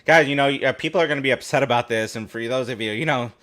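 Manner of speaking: a light take on a pundit's irritating voice, a bit fast; imitating Andy Martino. Host mimics Andy Martino for his co-host, lightly annoying. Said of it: "you're doing a real good imitation of this guy".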